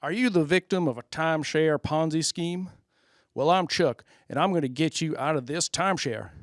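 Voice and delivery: put-on light Southern accent ad read. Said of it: "It'll be, like, Southern".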